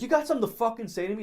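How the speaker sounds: high, loud, rapid challenge; imitated fury. Bully pinning friend against the wall, imitated fury. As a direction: rattle it off like a bully spoiling for a fight. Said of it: "furious at my friend Anthony".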